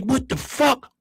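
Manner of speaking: high, stunned disbelief. Retold or imitated. Seeing Stevie's new Jordans, high and stunned. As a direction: gape at the sneakers. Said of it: "I'm like".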